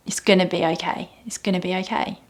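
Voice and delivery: soft, fading self-comfort; tender whispered reassurance; soothing reassurance. Shown as a demonstration. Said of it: "I love those words to myself".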